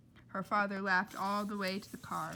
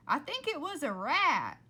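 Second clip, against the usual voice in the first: startled customer; 6 semitones higher, 8 dB louder than usual. Acted. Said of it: "then someone said".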